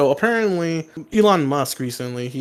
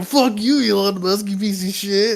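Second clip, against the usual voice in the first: mock rant; 5 semitones higher than usual. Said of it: "I'm like".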